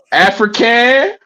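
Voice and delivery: hammed-up fake Scottish hype; botched Scottish accent. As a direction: stretch the words out in a badly faked Scottish voice. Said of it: "you jacked up that accent".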